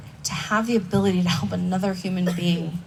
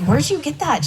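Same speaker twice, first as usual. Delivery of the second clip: surprised; 8 semitones higher, 4 dB louder than usual. Retold or imitated. Surprised question to sponsee.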